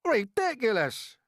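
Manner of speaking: slow, high, loud scoffing; shout of disbelief. A narrator's reading. Creatures shouting down James's plan, scoffing. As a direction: bellow it down. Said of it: "they shouted".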